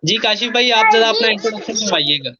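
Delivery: heavy echo on the call line. Real, not acted. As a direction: voice echoing in a big room. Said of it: "आवाज में इको आ रहा है बहुत ज्यादा".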